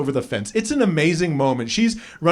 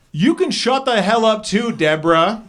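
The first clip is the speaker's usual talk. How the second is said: mild mock yell; 5 semitones higher than usual. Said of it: "she yells".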